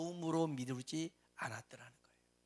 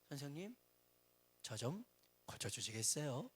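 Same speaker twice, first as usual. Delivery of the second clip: mock polite request; 4 semitones lower, 7 dB quieter than usual. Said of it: "그렇게 말할 수가 없어요".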